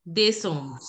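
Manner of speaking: day song as "day-song", first vowel "ay"; day song with accented é; French model pronunciation. Shown as a demonstration. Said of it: "we are going to pronounce it as day song".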